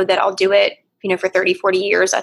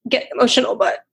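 holding back tears while telling it; emotional retelling of a last goodbye with dad; choked up; 4 semitones higher than usual. Real, not acted. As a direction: voice lifted and strained with emotion, close to tears. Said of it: "And I apologize for".

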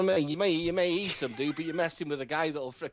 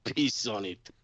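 wrestler promo voice; 4 semitones lower than usual. Retold or imitated. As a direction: cut a heel wrestler promo. Wrestler promo, low slow.

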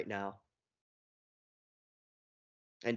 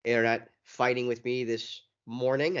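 choppy audio. Real, not acted. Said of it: "my choppy audio is due to".

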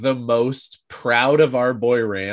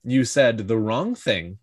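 calm menace. Retold or imitated. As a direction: imitate a calmly delivered threat. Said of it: "it's so calm".

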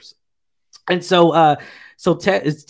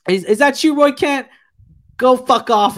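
higher-pitched imitation of an excited call; joking retelling; 9 semitones higher, 4 dB louder than usual. Retelling the Roy Kent joke, high-pitched mock exclamation. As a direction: play the retold joke in a raised voice.

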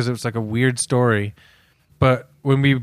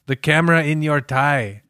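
badly faked German accent; failed German accent. Comic mocking a German spymaster handing out gadgets, half-hearted German accent. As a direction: attempt a German accent, not quite landing it. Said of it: "I can't do the German accent right now".

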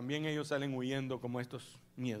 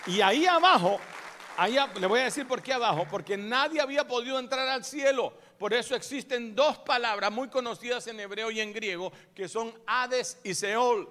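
loud, higher preaching to the crowd; full-force preaching; 7 semitones higher, 10 dB louder than usual. Acted. Preacher teaching the congregation about Hades, full-force preaching.

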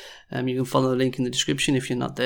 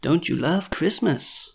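ordinary talk

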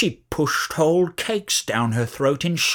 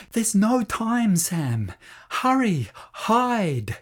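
urgent plea; 8 semitones higher, much slower than usual. A narrator's reading. Lucy urges Sam to hide.

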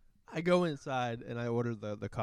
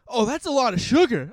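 deadpan cashier; 9 semitones higher, 9 dB louder than usual. Retold or imitated. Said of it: "looks her dead in the eyes and goes".

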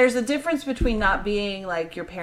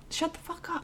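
a sweet, much softer sting; gentle soft hush; 8 semitones higher, 14 dB quieter than usual. Retold or imitated. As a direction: say it gently with a mock-sweet smile. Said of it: "while you're gently saying".

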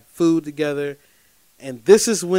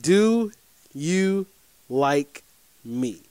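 slow, with a pause on each word; a mild hint of a girl teasing; drawn-out question; much slower than usual. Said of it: "She says".

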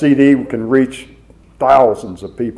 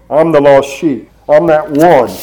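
fervent testimony; 2 semitones higher, 4 dB louder than usual. Acted. Preacher's testimony climax.

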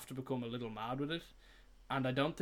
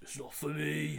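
imitating Jon Snow in a Northern English accent; quoting Jon refusing the crown in a Northern English accent; 2 semitones higher than usual. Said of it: "That's all very good accents".

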